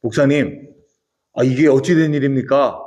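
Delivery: a touch of startled disbelief, retold; mildly startled elder. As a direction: ask in mild mock astonishment. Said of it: "깜짝 놀란 장로님께서".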